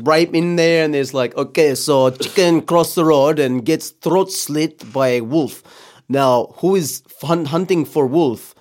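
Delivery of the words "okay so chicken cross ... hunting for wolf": Putin-style joke. Retold or imitated. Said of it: "this is Vladimir's shtick".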